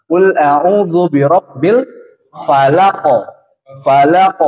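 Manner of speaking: slow, chanted recitation; Quran recitation. Shown as a demonstration. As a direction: recite the verse slowly. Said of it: "Nah, gitu ya". (bacaan Quran pelan)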